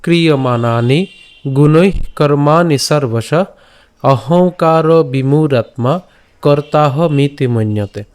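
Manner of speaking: slow, measured Sanskrit chant-like reading; chanting a Sanskrit verse slowly; slow sloka recitation. Shown as a demonstration.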